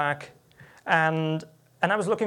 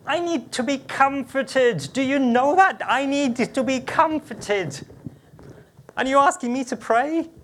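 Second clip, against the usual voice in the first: higher, louder, pleading protest at God; hurt protest; 7 semitones higher, 6 dB louder than usual. Retold or imitated. Speaker pleading with God to be comforted. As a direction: cry out that you need comfort, not a task.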